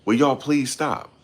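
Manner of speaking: fed-up plea; exasperated plea. Real, not acted. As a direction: stretch out the please like you're worn out. Begging viewers to stop.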